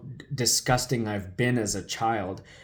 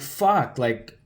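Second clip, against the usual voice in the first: retold panic; 3 semitones higher than usual. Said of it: "and I'm talking like this".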